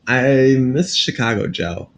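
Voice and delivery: mock Chicago accent, slow and drawn out; a hammed-up Chicago accent on Chicago Joe. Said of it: "This is my Chicago accent".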